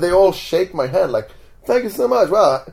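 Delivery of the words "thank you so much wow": higher, effusive thanks; mock awed gratitude. Departing muggers to the magician, mock gushing thanks. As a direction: gush like an amazed fan, lightly acted.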